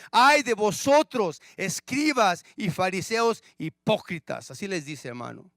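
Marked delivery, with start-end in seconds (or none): 0.1-4.5 denouncing woe. Retold or imitated. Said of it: "le dice a estos religiosos".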